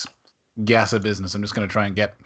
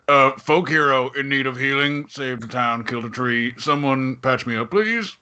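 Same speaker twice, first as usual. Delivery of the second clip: hammed-up wounded hero calling out; lightly voiced pleading hero; mock plea for healing; 2 semitones higher than usual. Player calling to temple clerics for healing. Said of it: "It's like".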